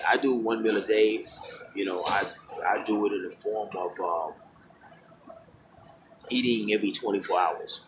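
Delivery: talking while chewing gum; words around a piece of gum. Real, not acted. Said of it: "chewing gum in my mouth".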